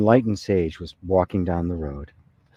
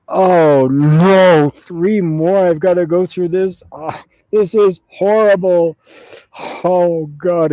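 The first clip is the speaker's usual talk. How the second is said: loud, high-pitched mock lament; hammed-up groaning despair at a dreadful sentence; dismayed wailing; 8 semitones higher, 6 dB louder, slower than usual. Monk laments three more lifetimes.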